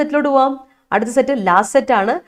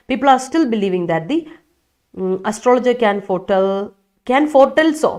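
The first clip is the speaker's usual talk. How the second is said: slow reading; much slower than usual. Shown as a demonstration. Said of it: "reading student sentence slowly".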